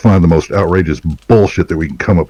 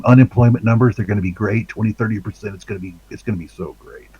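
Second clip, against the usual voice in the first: higher, boastful huckster voice; bragging bullshitter; 5 semitones higher than usual. Pretend. Comic mocking a politician's bragging in a higher blowhard voice. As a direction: oversell it like a blowhard salesman. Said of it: "a bullshitter that talks like this".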